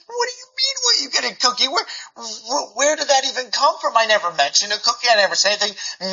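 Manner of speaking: high, incredulous start that settles; can't believe what your child just asked; mildly hammed-up puzzled dad; baffled disbelief. Father baffled by cookie question.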